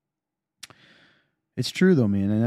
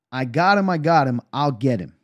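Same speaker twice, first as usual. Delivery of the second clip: calling out to teammates; 2 semitones higher, 4 dB louder than usual. Retold or imitated. Calling out on the court.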